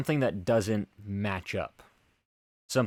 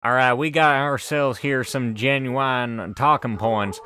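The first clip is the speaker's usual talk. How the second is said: put-on stereotypical American accent; 2 semitones higher than usual. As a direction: lay on a thick folksy American accent. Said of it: "in the stereotypical American accent".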